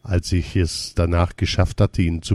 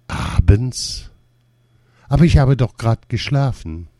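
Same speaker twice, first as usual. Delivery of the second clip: incredulous; 5 semitones higher than usual. A narrator's reading. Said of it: "fragt dann ungläubig".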